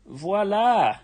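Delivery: voila. Real, not acted. Reveal while drawing.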